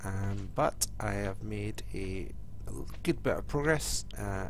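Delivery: stuffy voice from a head cold; nasal cold voice. Real, not acted. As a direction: talk through a blocked nose. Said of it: "apologise for my voice and my nasally, uh, voice sound".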